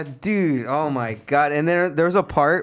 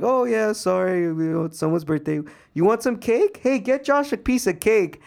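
much higher, bubbly mock staff voice; imitating cheery staff; 7 semitones higher than usual. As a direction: chirp it like an oblivious receptionist.

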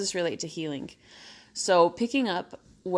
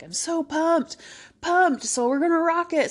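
pumped-up self-talk; 11 semitones higher, 5 dB louder than usual. Retold or imitated. Self-pumping inner voice on treadmill.

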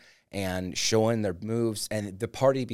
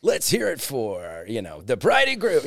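cheesy DJ announcer; 3 semitones higher, 4 dB louder than usual. Retold or imitated. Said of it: "the strip club D J voice".

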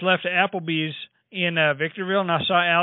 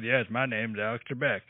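Alex Trebek impression; 7 semitones lower, 6 dB quieter than usual. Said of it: "He said".

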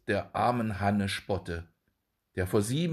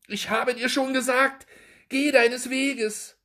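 angry rebuff; 5 dB louder than usual. A narrator's reading. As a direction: send him away in anger. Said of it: "entgegnete Frau Hanne zürnend".

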